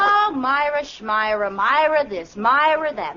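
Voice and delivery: mocking singsong about Myra; jealous scoff. Wife mocking husband's old girlfriend, jealous scoff. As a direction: sneer at her name.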